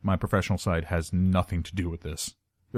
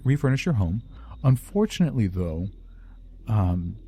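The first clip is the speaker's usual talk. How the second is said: polite corporate villain. Shown as a demonstration. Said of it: "Or are we talking more along the lines of".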